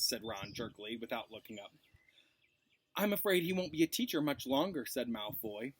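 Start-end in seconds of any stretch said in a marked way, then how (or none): 2.9-4.9 mock sorrow. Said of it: "in a tone of mock sorrow".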